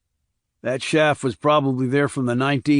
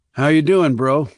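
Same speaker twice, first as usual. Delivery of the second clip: hearty greeting; 3 semitones higher, 5 dB louder than usual. Acted. Brother greets.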